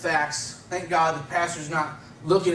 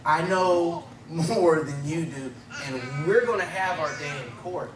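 confident, laughing. Retold or imitated. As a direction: lay down the law, half laughing. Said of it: "his tone was entirely different".

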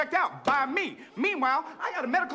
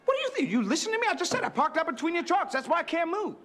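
high-pitched irate complaint; exasperated, sharply raised pitch; indignant; 8 semitones higher than usual. Acted. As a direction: snap back at someone who isn't listening. Quarrel over a blocked car.

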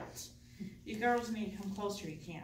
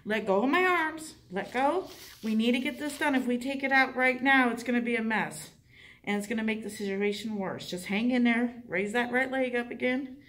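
firm; 5 dB louder than usual. Shown as a demonstration. Calming a gagging patient firmly.

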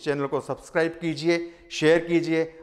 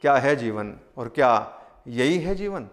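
measured Hindi verse recital with lingering line endings; poem recitation. Acted. Poet sharing a poem on childhood and life with listeners, poem recitation. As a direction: recite the poem in rhythmic, separated phrases.

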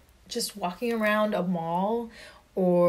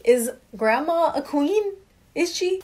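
put-on excited child question; 6 semitones higher, 3 dB louder than usual. Child asking mom excitedly.

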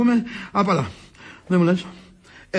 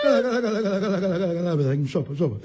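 rapid placating mumble; 5 semitones lower, much faster than usual. Acted. Backs down after wife's wail.

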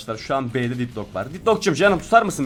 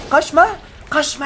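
high, louder shout of Kaçma; loud taunt; 12 semitones higher, 5 dB louder than usual. Real, not acted. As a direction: yell Kaçma at the fleeing enemy.

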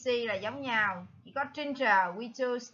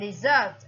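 dessert stressed on SERT; second-syllable stress; 2 semitones lower, 5 dB louder than usual. Shown as a demonstration. Teacher gives the odd one out, dessert stressed on the second syllable. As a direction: hit the last syllable of dessert. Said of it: "the second stress".

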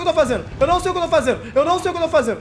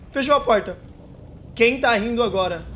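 ordinary delivery

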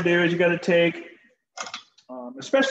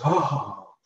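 unimpressed oh; 4 semitones lower than usual. Pretend. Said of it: "just kinda goes".

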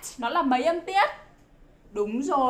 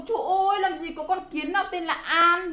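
put-on child's protest; 6 semitones higher than usual. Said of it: "là con bảo".

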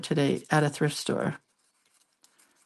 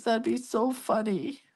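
put-on soft, higher little-kid voice; lightly voiced young boy; imitated grandson; 5 semitones higher, 6 dB quieter than usual. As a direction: imitate a tickled small child, softly pitched up. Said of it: "He goes".

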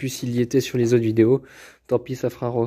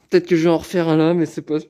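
talking through hiccups; words broken by a hiccup; 3 semitones higher than usual. Real, not acted. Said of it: "j'ai le hoquet".

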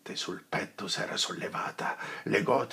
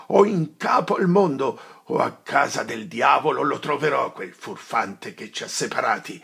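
much higher and louder, spitting fury; from grim threat to shouted rage and back; rage building; 5 semitones higher, 9 dB louder than usual. Acted. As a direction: vow revenge furiously. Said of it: "la rabbia riaccesa dall'idea di quel dubbio".

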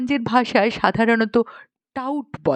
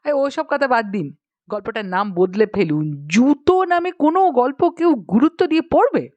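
cutting in dismissively; 2 semitones higher than usual. Acted. Gangaram interrupting the author to object to the title, dismissive. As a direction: brush it aside, rising into a scornful question. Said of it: "থামিয়ে দিয়ে বলল".

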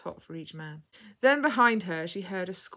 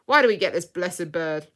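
loud exasperated pirate grumble; pirate's loud gripe, falling away; complaining pirate yell; 11 dB louder than usual. A narrator's reading. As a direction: bellow in annoyance at the bird. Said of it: "he yelled".

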